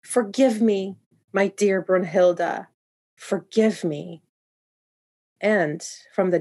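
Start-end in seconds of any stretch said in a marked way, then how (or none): 0.0-4.2 sobbing. Acted. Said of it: "he called out sobbing".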